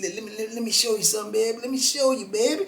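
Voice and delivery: put-on New Orleans accent. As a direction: coax him in a light New Orleans lilt. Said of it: "Got that little New Orleans accent".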